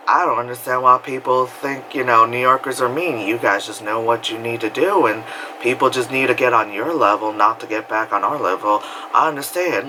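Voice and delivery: hint at a cartoon character's accent; Cleveland Brown. Lyft driver sympathizing with New Yorkers, lightly imitated cartoon voice. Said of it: "he reminded me of Cleveland".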